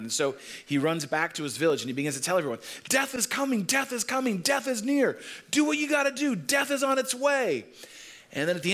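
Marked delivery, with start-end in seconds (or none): 2.9-7.7 high, panicked cries of alarm; a man running home yelling that death is coming; frantic warning. Retold or imitated. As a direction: shout the warning through the village. Man warns village of death.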